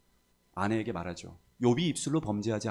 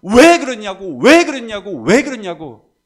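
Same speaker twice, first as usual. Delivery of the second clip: loud, high, repeated protest; resentful demand; 9 semitones higher, 15 dB louder than usual. Retold or imitated. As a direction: hammer the question at God in imitation of Job. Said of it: "따지면서 원망하고". (원망하며 큰 소리로 따지기)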